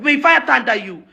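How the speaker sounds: words tumble out in the wrong order; fumbled curse. Real, not acted. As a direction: trip over the curse mid-rant. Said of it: "May thunder fire you".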